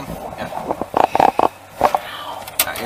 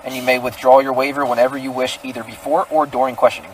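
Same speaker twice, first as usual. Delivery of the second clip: reading Miranda rights; 2 semitones lower than usual. Real, not acted. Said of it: "I'm gonna read you your Miranda rights".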